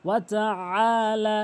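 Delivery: "আলা" opening on a long throat-squeezed ain; throaty ain. Shown as a demonstration. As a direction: draw out the ain in "ওয়া তা আলা". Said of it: "আইনের উচ্চারণ করতে হবে".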